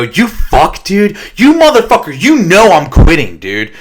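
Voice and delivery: replaying a mild telling-off of a friend; retold angry outburst. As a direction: call out a friend as if betrayed, in half-earnest. Acted quarrel with Baron.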